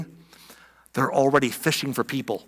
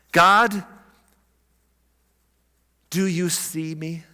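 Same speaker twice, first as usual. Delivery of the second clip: hushed imagined prayer. Retold or imitated. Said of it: "where you're like".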